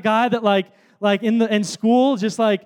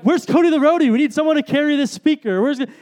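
calling out; 5 semitones higher, faster than usual. Retold or imitated. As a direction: call out for the roadie. Friends calling for the roadie.

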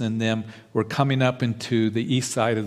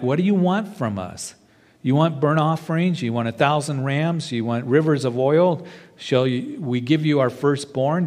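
bitter resentful complaint; 3 semitones higher than usual. Retold or imitated. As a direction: throw the questions back bitterly, half-acted. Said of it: "asking this out of just bitterness and resentment".

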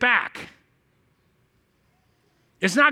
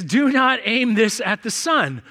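slow label reading; slower than usual. Retold or imitated.

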